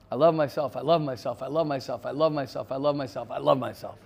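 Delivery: chanting "I love myself" in a sing-song mantra; mock mantra, hammered on love; mock self-affirmation. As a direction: rattle it off like a hollow affirmation. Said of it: "you can't just snap your fingers and say".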